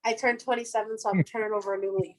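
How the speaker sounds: talking with food in her mouth; mouth full. Real, not acted. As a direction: speak through a mouthful of chicken. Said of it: "I have chicken in my mouth".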